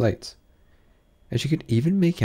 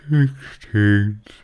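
Dormouse; 5 dB louder than usual. A narrator's reading. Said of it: "said the Dormouse".

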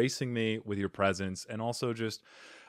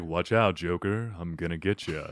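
smooth, lower sultry hero voice; Batman impression; 5 semitones lower than usual. Batman warning Joker he will get him, smooth sultry voice. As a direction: threaten the villain in a silky croon. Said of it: "sultry voice".

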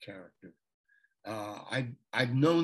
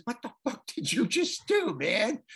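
mock angry; 8 semitones higher, 3 dB louder than usual. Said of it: "he got really mad".

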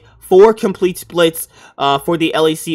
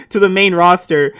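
laughing while reading; 3 semitones higher, 4 dB louder than usual. Real, not acted. Still laughing at the name.

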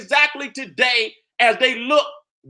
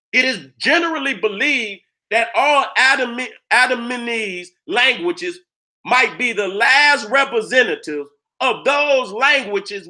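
reading aloud. Shown as a demonstration. Reads a passage aloud.

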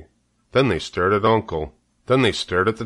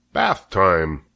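cheerful. Acted. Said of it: "said Zuckerman cheerfully".

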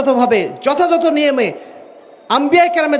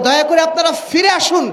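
raised pleading call; 4 semitones higher than usual. Real, not acted. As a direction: call them back with force. Preacher pleading with rival groups.

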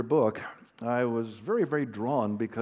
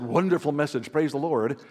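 louder mock churchgoer gushing; hammed-up pious compliment; man in the hall praising the preacher, louder; gushing praise; 2 semitones higher, 6 dB louder than usual.

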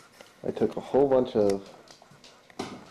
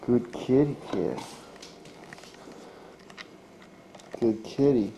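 tender praise; slower than usual. Real, not acted. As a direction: coo at the cat. Praising the cat.

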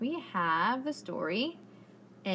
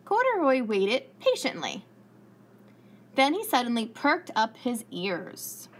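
lively storybook narration for little listeners; reading to children. A narrator's reading. Teacher reading aloud to her class, lively storybook voice. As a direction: tell it like story time on the rug.

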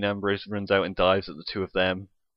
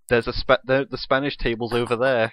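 imitating a commentator's call, slightly louder; mock commentator shout, only mildly raised; retold shout; 4 dB louder than usual. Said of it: "and J B L shouts".

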